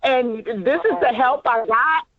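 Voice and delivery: high, exasperated, laughing through it; flipping my lid. Pretend. Nurse fed up with the leader's useless answer, exasperated. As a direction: disbelief boiling over at the leader. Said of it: "I would be flipping my lid".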